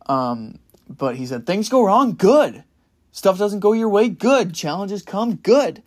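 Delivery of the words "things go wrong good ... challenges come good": loud, high, pumped-up coach shouting every "good"; coach's fired-up yell. Retold or imitated. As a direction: yell it in the player's face like a hyped coach. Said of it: "loud voice".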